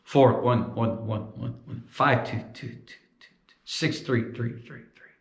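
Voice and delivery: fading echoes mid count; echo sound check. Shown as a demonstration. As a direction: echoes trailing off. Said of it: "Here's where it gets weird".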